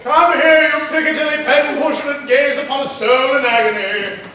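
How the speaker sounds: loud, hammed-up anguish; mock tragic plea. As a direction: play the suffering soul.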